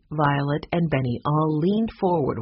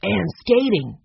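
a touch of excitement, pitched up; very excited; 5 semitones higher, 3 dB louder than usual. A narrator's reading. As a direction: chime in eagerly. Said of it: "who sounded very excited".

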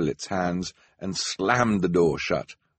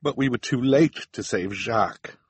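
shuddering; 3 semitones higher than usual. Acted.

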